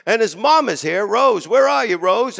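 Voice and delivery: hamming up the host's shout-out; emcee calling out. Retold or imitated. Host working the crowd, calling the mother out. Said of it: "he goes".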